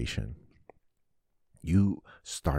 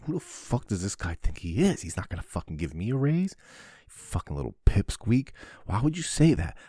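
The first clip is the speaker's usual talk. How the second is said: mock angry rant; 4 semitones higher than usual. Man in the shower ranting at his imaginary boss, angrily. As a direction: work yourself up, spitting at a pipsqueak.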